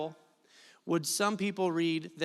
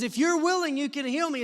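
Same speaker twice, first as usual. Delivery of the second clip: fresh urgent reading; 7 semitones higher than usual. Shown as a demonstration. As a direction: read it like it just jumped out at you. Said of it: "let me tell you how I read it".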